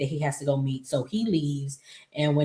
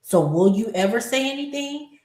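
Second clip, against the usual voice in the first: pressing; 7 semitones higher than usual. Acted. Pressing character to confess.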